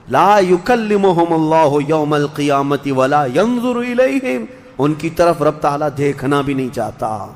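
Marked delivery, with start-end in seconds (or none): 0.1-4.4 slow chanted Arabic verse; Quranic recitation. Acted. Preacher reciting the verse to the congregation, slow and chanted. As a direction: intone the verse slowly, rising at the close.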